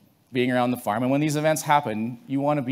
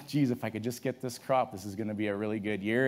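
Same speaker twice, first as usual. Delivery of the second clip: softer, wishful thinking to himself; hopeful murmur; 2 semitones lower, 7 dB quieter than usual. Retold or imitated. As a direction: quietly wish for a good harvest. Farmer hoping for a good year.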